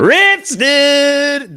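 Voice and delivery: loud, high outburst of outrage; shouting at the screen. Real, not acted. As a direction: yell the friend's name in disbelief. Suddenly angry at the clip.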